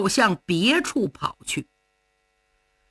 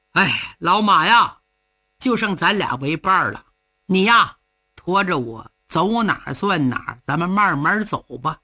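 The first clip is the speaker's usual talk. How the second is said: dejected murmur; 4 semitones lower than usual. Acted. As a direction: sigh to the horse as the only friend. Cheng speaking to his horse.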